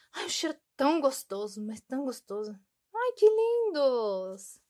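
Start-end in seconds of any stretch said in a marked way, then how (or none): 2.9-4.6 high, loud, slow gush of delight; delighted squeal. Real, not acted. Gushing to viewers about cute stickers, a slow high squeal.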